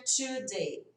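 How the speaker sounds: "today" said as "chu-day"; change the T of "today" into CH; switched CH sound. Shown as a demonstration. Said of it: "a gente muda o som".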